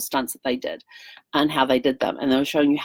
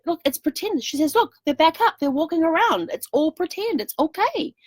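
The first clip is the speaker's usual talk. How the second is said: soothing mother; 11 semitones higher than usual. Retold or imitated. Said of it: "his mother had to".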